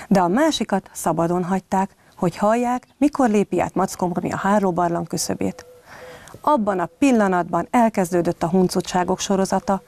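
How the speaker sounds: put-on lively read-aloud storytelling for children; story narration. A narrator's reading. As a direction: tell it like a bedtime tale to little kids. Reads a bedtime story to children.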